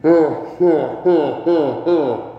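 loud pained oh oh oh; pained cries. Real, not acted. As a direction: cry out from the burn. Mouth burning from hot sauce.

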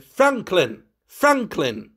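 booming summons for the butler; booming call. A narrator's reading. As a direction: call down through the house. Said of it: "His voice boomed through the house".

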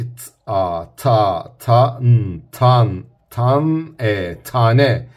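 sounding out t, a, ta, n, tan, ne one by one; letter-by-letter blending. Retold or imitated. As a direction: slowly blend each sound of "tane" like a child. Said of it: "şöyle okuyorlar". (çocuk gibi harf harf heceleyerek)

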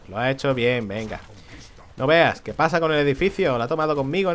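ordinary talk, nothing marked

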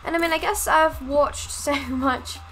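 put-on British accent, explaining casually. Shown as a demonstration. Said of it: "I can now do a pretty decent British".

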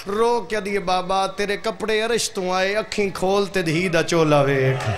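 loud, wailing cry of a grieving daughter; wailing lament. Acted. Daughter wails over her father's head, loud and grieving.

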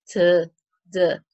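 "t" and "d" each sounded alone with a little vowel after; teacher demonstrating "t", then "d"; isolated consonant sounds. Shown as a demonstration. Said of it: "es una consonante sonora".

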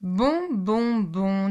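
annoyed little hen; resigned hen. Acted. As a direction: sigh it off and get to work. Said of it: "dit la petite poule rousse".

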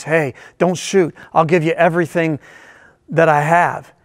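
hint of Harry Carey, slowed down; Harry Carey's voice. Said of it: "said in his distinctive voice".

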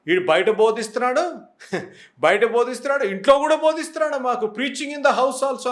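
mocking complaining wife. Wife grumbling about her pastor husband, mock exasperated. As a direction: complain half-laughing that he preaches at home too. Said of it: "అని మొదలు పెడతారు".

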